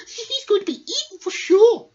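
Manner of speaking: loud, high, chuckling iguana. Acted. Iguana betting the mouse is eaten, loud and gleeful. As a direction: cackle out the prediction. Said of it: "said an iguana".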